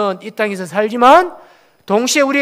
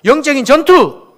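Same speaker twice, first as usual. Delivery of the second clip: 영적인 전투 louder, rallying the congregation; louder call to repeat; 3 semitones higher, 6 dB louder than usual. Shown as a demonstration. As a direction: lead them loudly in 영적인 전투. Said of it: "한번 따라해 봅시다". (회중에게 크게 영적인 전투)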